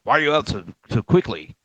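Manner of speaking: put-on grandma snapping at the kid for coming out early; angry grandma. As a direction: scold like a fed-up grandmother. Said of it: "she'd get pissed off".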